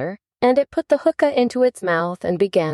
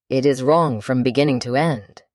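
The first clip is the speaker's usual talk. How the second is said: decided; 2 semitones lower than usual. Acted. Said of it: "said the caterpillar decidedly".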